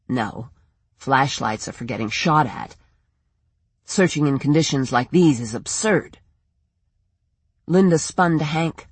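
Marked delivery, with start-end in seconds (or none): 0.1-6.2 lightly voiced man, pitched lower, sceptical; a lower voice for a reluctant searcher; objecting in a slightly put-on low voice; doubting man. Same man objects to Linda.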